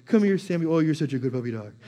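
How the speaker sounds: calling the dog. Retold or imitated. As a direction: cheer the puppy on as he comes. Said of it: "I'd come over here".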